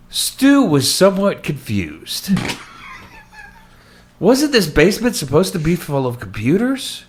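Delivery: theatrical, deliberate audiobook reading; story narration. Acted. Host reading Stu's story to co-host, dramatic narration. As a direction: read it out with dramatic emphasis and lifted phrases.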